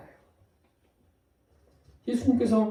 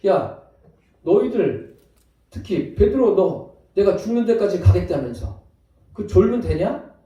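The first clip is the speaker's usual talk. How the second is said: mock scolding; 4 dB louder, slower than usual. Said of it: "이렇게 책망하지 않으셨어요".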